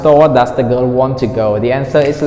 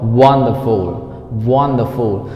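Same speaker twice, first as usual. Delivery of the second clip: WONderful, first syllable stressed and falling; 3 semitones lower, slower than usual. Shown as a demonstration. Teacher modelling wonderful, first syllable stressed. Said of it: "the stress is on the first syllable".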